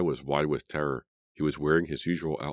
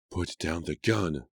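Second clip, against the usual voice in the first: calm, slow; 2 semitones higher, slower than usual. Acted. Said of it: "His voice was calm".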